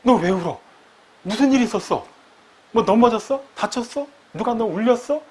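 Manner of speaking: light imitation of a worried parent asking; rising, concerned questions rushed out. Parent questioning a crying child, mildly worried. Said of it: "보통 부모들은 어떻게 반응하나요?".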